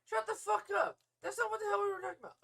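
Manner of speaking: high, loud, angry outburst; full-volume shouted rebuke; straight asshole. Shown as a demonstration. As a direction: demonstrate a furious telling-off. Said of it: "go from straight asshole to calm".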